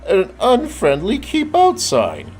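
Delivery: scheme it like a sneaky ghost; Greg the ghost. A narrator's reading. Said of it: "Greg the ghost said".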